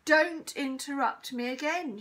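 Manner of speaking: loud, slow, stern teacher's shout. A narrator's reading. Teacher scolds interrupting pupil, shouting. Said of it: "shouted Mister Irons".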